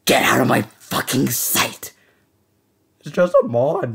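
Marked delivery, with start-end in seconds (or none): 0.1-1.9 betrayed and heartbroken. Acted. Friend betrayed him.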